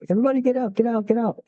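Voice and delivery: half-strength imitation of an urgent yell; retold second yell. Airman trying to rouse unresponsive Marines, retold yell. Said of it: "And so I yell again".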